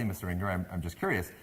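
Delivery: mildly deferential, careful question; very polite. Retold or imitated. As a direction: ask meekly and courteously. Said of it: "So I said very politely".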